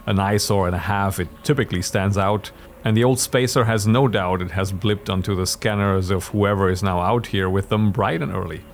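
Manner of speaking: measured storyteller narration; story narration. A narrator's reading. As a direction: narrate the scene steadily.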